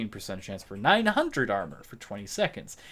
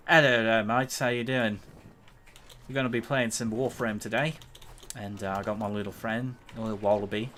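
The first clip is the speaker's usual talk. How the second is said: mock Australian accent. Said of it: "People seem to think I'm Australian".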